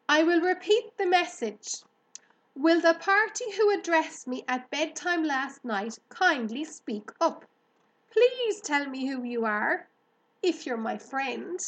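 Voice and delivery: high, loud eager pig; Wilbur calling out. A narrator's reading. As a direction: repeat the call, pleading to be heard. Pig repeats his call aloud.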